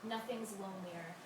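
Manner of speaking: measured verse with pauses between images; even, deliberate poem recital; poetry reading. Acted. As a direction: read each line as verse, letting the endings fall.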